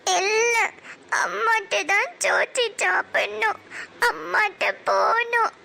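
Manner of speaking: a sob on the no, then tearful pleading; stubborn little voice through tears; crying refusal. Acted. Daughter refusing to be fed by father, crying for mother.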